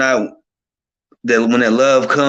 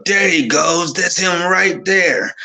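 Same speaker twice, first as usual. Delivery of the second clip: higher, pitched-up call across the store; retold yell; 6 semitones higher, slower than usual. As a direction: call out to him from across the room. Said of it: "I just yell".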